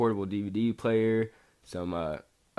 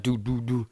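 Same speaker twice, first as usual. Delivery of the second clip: three evenly voiced thuds; imitated hard knock. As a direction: mimic a fist knocking on the door. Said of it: "hard knock".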